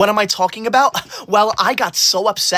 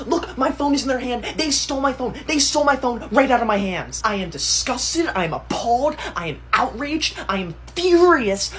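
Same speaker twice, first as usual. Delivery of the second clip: sly fake outrage; 3 semitones higher, 4 dB quieter than usual. Sneaky setup then fake outrage.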